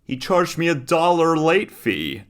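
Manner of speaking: put-on high, slow, smug child; smug kid voice. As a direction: play the cocky little son. Voicing the boy's post.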